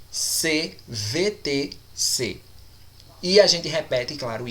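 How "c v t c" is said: letters C V T C said very slowly one by one; spelled out slowly. Shown as a demonstration. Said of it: "e consoante".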